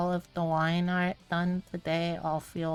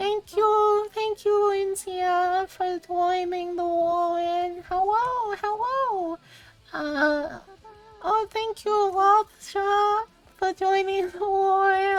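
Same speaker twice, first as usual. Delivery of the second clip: forced put-on little voice, higher and louder; 14 semitones higher, 5 dB louder than usual. Thanking viewers for joining while still forced into a little voice. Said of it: "I have to do a little voice".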